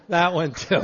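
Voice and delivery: repeated through a laugh. Real, not acted. Veteran repeats his closing line to the audience, laughing. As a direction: chuckle the words out.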